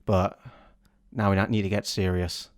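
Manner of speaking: announcer voice. Acted. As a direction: introduce the segment like a solemn host. Hosts a game segment.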